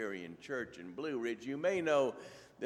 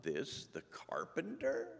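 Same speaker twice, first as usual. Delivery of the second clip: measured, clearly projected Bible reading; scripture reading. Acted. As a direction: read scripture aloud to a congregation. Reads scripture to congregation.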